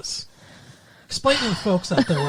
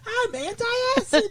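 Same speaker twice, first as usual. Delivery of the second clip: talking antacid voice. Pretend. Voicing a talking Tums.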